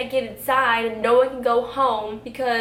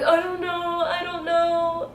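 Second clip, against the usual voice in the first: higher, louder, frantic repeating; panicked; 8 semitones higher, 4 dB louder, slower than usual. Retold or imitated. Retelling the friend losing it, panicked voice. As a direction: sound lost and overwhelmed. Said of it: "he was like".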